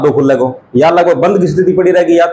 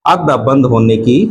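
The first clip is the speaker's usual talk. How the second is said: slow dictation; 3 semitones lower, slower than usual. Shown as a demonstration. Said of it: "अर्धसंवृत अर्थात क्या होगा".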